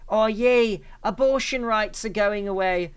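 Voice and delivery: high, sarcastic fake celebration; mock cheer. Commentator mocking a pundit's glee, sarcastic. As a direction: sneer it like a gleeful cheer. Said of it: "to say".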